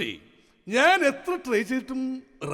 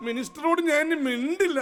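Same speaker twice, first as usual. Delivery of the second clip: sulky king breaking into comic sobs; childish royal sulk, played for laughs; mock crying. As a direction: end in a hammed-up little cry. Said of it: "ഇങ്ങനെ കിടന്ന് കരയാതെ".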